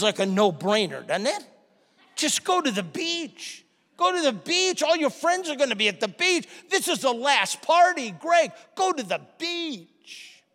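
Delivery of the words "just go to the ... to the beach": light coaxing tempter, higher pitch; tempter's voice. Retold or imitated. Whispering temptation to skip school, mildly coaxing. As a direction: coax him toward the beach, sly and tempting.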